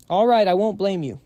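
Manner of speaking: fine, I give up, said loud and high; exasperated giving in. Acted. Gives in to scolding.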